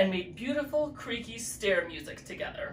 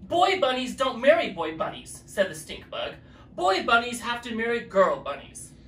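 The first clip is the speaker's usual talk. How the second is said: louder, higher bossy decree; stern ruling; 3 semitones higher, 5 dB louder than usual. Acted. Stink bug forbidding the bunnies to marry, stern. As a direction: lay down the law.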